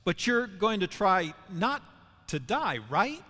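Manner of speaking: Peter scolding Jesus, loud and indignant; strong rebuke. Retold or imitated. Peter rebuking Jesus about dying, loud and insistent. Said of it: "to say strongly".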